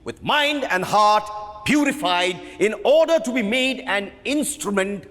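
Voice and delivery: emphatic lecturing voice; impassioned director. Acted. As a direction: preach the play's meaning to the cast. Director lecturing cast passionately.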